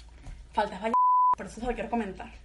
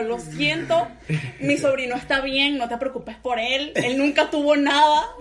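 mock dramatic apology; 5 dB louder, slower than usual. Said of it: "me metí en un performance dramático".

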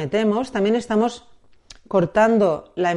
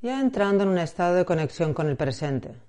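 unhurried meditation guide with long pauses; guided meditation. Acted. Guide asking listener to close the eyes and find the breath, guided meditation. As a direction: ease the listener into calm, phrase by phrase.

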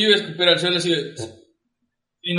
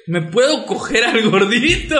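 higher, suggestive retold request; 3 semitones higher than usual. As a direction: ask it like a tipsy come-on. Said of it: "cuando chupa se vuelve, se vuelve jotillo".

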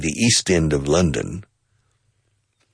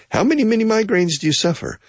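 questioner voice; much faster than usual. Acted. Voicing a questioner.

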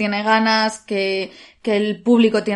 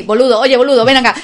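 put-on Argentine words in Spanish accent; 6 dB louder, faster than usual. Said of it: "todo esto con acento español".

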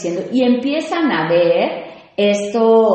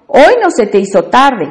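louder, pointed jab about being late; backhanded remark; 4 semitones higher, 9 dB louder than usual. Shown as a demonstration. Host demos a backhanded compliment, snide. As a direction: slip in the dig about always being late. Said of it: "qué quiero decir? Que siempre llegas tarde".

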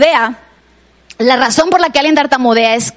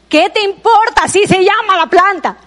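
higher, brassy punchline retort; mock sassy neighbour; 6 semitones higher than usual. Neighbour telling the nosy woman the plant's name, mock sassy. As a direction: land the joke in a cheeky put-on voice.

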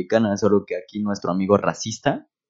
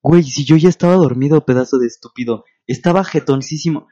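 indignant protest; 4 semitones higher, 3 dB louder than usual. Real, not acted. Angry protest at cousin.

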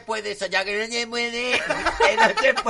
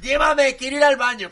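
loud, higher whiny royal orders; spoiled queen yelling; 7 semitones higher, 6 dB louder than usual. Pretend. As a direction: demand to be carried like a pampered queen. Reina exige que la lleven. (reina caprichosa gritando que la lleven)

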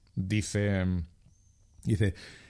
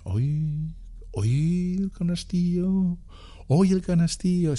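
mock sheepish answer; 7 semitones higher, much slower than usual. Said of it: "Y dice".

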